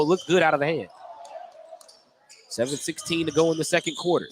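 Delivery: brisk courtside call of the action; steady announcer's game call; live play-by-play. Acted. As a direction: call each pass as it happens.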